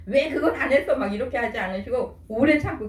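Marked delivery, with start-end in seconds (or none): 0.1-1.0 mildly pressing mock reproach, pitched up; higher-pitched demand for an explanation; acted scolding. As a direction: scold lightly, as an imitated parent. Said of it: "다그치면서 야단치면서".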